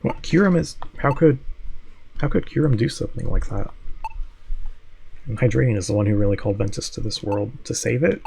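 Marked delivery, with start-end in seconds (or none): 0.0-3.7 high stammering disbelief; shocked. Acted. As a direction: reel at the news. Shocked at Kyurem's deed.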